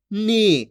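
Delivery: नी with the vowel held long. Shown as a demonstration. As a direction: stretch out the ई of नी. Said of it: "खींच के पढ़ा जाता है". (नी की ई खींचकर)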